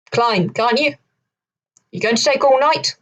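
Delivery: mild mock shout from above. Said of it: "the man above shouted down".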